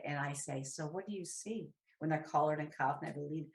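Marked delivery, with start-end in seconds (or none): 0.6-1.7 soft question. Retold or imitated.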